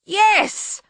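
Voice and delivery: high, loud yelp; pained, startled cry; frightened yelp. A narrator's reading. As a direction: blurt it out high in panic. Bogeyman yelps in Susan's grip.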